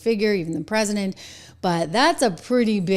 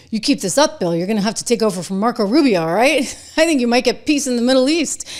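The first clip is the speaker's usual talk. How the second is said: laughing mock advice; 4 semitones higher, 5 dB louder, faster than usual. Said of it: "I'm like".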